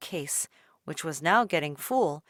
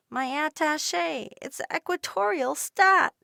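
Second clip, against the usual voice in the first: much higher, urgent plea; urgent girl; 9 semitones higher, 4 dB louder than usual. A narrator's reading. Dolores urging the shopkeeper, much higher. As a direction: insist with rising urgency. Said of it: "Dolores said".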